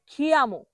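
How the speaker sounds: খিয়ামো with aspirated "kh"; over-strong first sound in খিয়ামো, kh for k; common mispronunciation. Shown as a demonstration. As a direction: say খিয়ামো as "khi-amo". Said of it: "এই কিয়ামোকে বলে".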